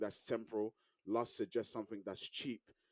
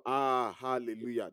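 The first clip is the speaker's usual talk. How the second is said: mock ecstatic hallelujah; 4 dB louder than usual. Mimicking climax exclamation.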